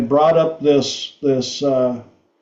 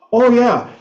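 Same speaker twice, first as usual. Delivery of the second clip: mom's admission; 8 semitones higher, slower than usual. Retold or imitated. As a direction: admit it with a guilty chuckle in the voice. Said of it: "She goes".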